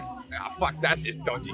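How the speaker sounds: whispered aside to himself; muttered under breath. Retold or imitated. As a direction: mutter it quietly, almost unvoiced. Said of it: "and I'm like".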